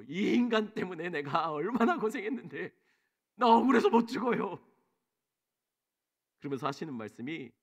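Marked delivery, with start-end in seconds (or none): 0.0-4.6 imitating bitter outburst. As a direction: burst out against the husband, pitch rising. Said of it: "그때 터져 나온 것 같아요".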